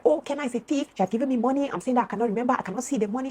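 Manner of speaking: imitated screaming complaint. Friend complaining to Karen, high imitated screaming. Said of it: "she was screaming".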